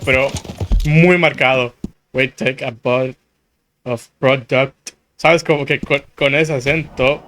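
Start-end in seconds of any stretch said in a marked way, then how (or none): 2.1-4.9 a hint of a southern accent, lower and unhurried; slow southern accent. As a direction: lightly mimic the game's southern speaker. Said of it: "un poquito lento". (un toque de acento sureño, lento)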